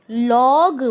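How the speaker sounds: log with a long open 'aw'; sounded-out example. Shown as a demonstration. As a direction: stretch log and release the g. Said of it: "It has to be O". (log में खिंची हुई 'ऑ' की आवाज़)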